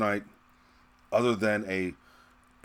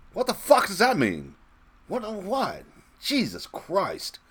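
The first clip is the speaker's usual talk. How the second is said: incredulous outburst; 10 semitones higher, slower than usual. Real, not acted. Outraged rant at supporters.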